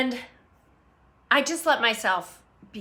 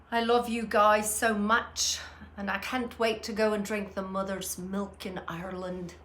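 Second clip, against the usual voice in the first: bad Irish accent; 4 dB quieter than usual. Streamer greeting viewer in Ireland, bad Irish accent. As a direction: put on a rough Irish accent. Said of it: "that was just a horrible accent".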